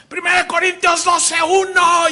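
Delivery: high, loud shouted rapid-fire verse; machine-gun preacher. Retold or imitated. Mimicking the preacher who opens shouting, loud. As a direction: blast the verse out fast and loud. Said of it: "Entonces dice".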